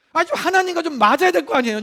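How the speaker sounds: ordinary talk, nothing marked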